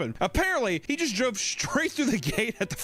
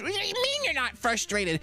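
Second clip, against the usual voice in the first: mock disbelief; 11 semitones higher than usual. Mock disbelief in acted quote.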